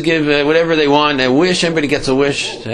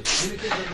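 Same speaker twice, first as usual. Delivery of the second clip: scornful pfft; 7 semitones higher, 11 dB quieter than usual. Retold or imitated. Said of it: "and he's, like, laughing".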